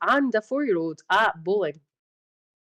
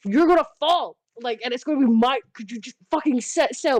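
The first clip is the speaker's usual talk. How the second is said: mock panicked aunt; 6 semitones higher than usual. Aunt begging niece on her shoulders to sit still, panicked. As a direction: fret as she wobbles above you.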